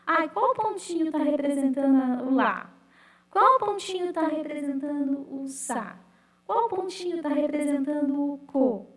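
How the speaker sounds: put-on bright questions to the children; quizzing pupils on which dot is which syllable; asking the class. Shown as a demonstration. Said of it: "eu vou perguntando pra eles".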